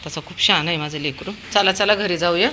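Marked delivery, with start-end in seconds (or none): 1.5-2.5 high, sing-song calls to come along; coaxing the dog. Real, not acted. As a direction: coax the pet home brightly. Owner coaxes dog home.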